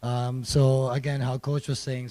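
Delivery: hoarse, losing voice; strained hoarse voice. Real, not acted. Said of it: "sorry, I'm losing my voice".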